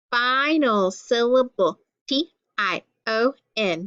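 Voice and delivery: measured classroom recitation, each letter set apart; letter-card drill. Shown as a demonstration. Teacher reading letter cards with pupils, drilled recitation. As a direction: recite the card name, then spell it out.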